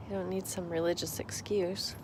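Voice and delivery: a whispered aside. Real, not acted. Telling viewers no excuse needed, whispered. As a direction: lean in and whisper it.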